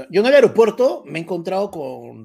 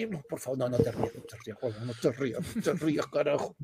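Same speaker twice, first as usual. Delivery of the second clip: trying not to laugh; 4 semitones lower, 10 dB quieter than usual. Retold or imitated. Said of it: "para no cagarme de risa".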